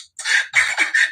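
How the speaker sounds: a fake, forced little laugh; imitating a forced laugh. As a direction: push out a laugh you don't mean. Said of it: "The boy laughed by force".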